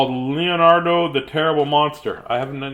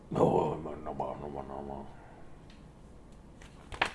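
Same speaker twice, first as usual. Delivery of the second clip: low and trailing away to softer; fading no; 11 semitones lower, 15 dB quieter than usual. Acted. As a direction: let each no fade out. Fading repeated no.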